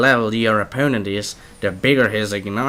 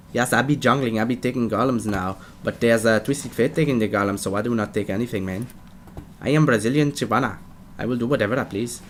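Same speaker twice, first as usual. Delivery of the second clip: lightly put-on Portuguese accent as Shyvana; half-hearted Portuguese accent, fast and cheeky; mock Portuguese accent; 4 dB quieter than usual. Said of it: "Portuguese accent".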